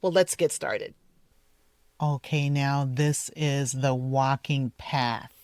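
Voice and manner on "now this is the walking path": path with a clear TH at the end; tongue out for the TH in path. Shown as a demonstration. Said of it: "be careful here for the T H".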